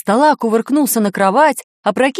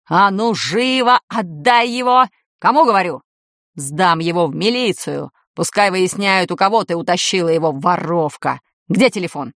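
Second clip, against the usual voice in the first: furious shout; 3 semitones lower than usual. Acted. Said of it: "с яростью схватился".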